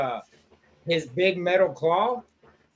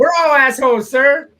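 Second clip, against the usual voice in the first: mock shout; 7 semitones higher, 9 dB louder than usual. Acted Spaceballs quote.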